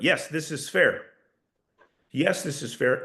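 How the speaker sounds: "this is fair" as a settled statement, falling; assured, falling close; downward tonality. Shown as a demonstration. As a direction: let "fair" fall with certainty. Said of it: "when you're using a downward tonality".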